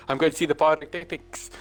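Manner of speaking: put-on Scot putting on a South African accent; joking South African impersonation. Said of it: "a Scottish person doing a South African accent".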